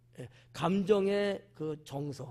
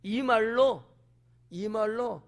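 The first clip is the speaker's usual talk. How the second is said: usual speaking voice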